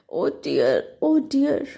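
groaned. Acted. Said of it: "Chicken Licken groaned".

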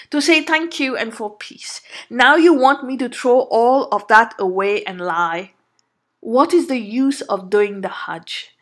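a hint of a calm, principled husband; calm and firm. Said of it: "very calmly and said".

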